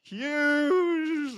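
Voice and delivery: high, lilting mock Welsh accent; sing-song Welsh accent, played for laughs. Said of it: "I'm gonna use my Welsh accent".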